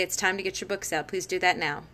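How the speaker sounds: calm statement, falling at the end; firm directive. Shown as a demonstration. Teacher telling the class to get books out, firmly. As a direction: tell them, don't ask. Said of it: "end your sentences with a period".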